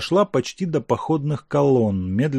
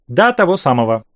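broad smile; 3 semitones higher, 6 dB louder than usual. Acted. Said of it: "Ещё более широко улыбнулся Савенков".

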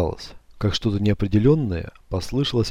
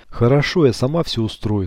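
cold and loud. Acted. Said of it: "так громко и холодно".

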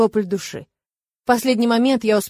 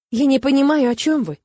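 higher, louder frightened squeak; 4 semitones higher, 4 dB louder than usual. Acted. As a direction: squeak it out in panic. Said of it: "пискнула она". (испуганный писк, выше)

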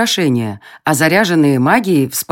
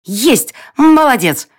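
high, bright pixie cheer; encouraging squeak; 8 semitones higher, 4 dB louder, slower than usual. Acted. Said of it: "ободряюще пискнула Тень".

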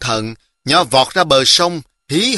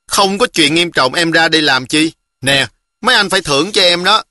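put-on a touch of a self-important girl, higher; lightly voiced little girl; 4 semitones higher than usual. Girl claims a reward for bringing the letter, lightly girlish. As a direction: pitch it up, a little demanding.

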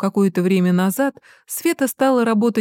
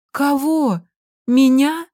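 mother stunned her son fears her; incredulous; 7 semitones higher, much slower than usual. Acted. Hurt mother's incredulous question. (недоверчиво, обиженно)

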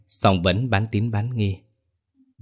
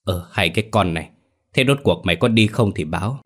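impatient scolding. Acted. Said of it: "Bà Bùi mất kiên nhẫn quát".

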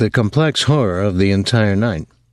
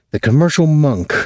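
mildly harsh, sneering jab; 7 semitones higher than usual. Acted. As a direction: fling the label at him with contempt. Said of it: "Gretchen said harshly".

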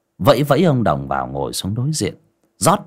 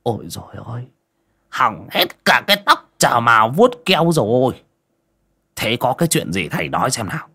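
a touch of comic whining; mock whimper; 3 semitones higher than usual. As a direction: whine over ruined hair. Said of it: "ôm đầu mếu máo".

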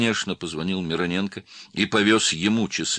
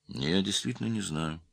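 calm; 4 semitones higher than usual. A narrator's reading. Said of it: "спокойно сказал он".

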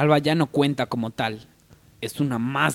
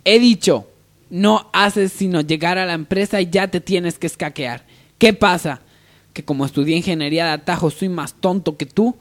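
louder furious boss; boss yelling; 6 semitones higher, 6 dB louder than usual. Acted. Boss ordering his secretary back to work, loudly. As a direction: shout her back to work.

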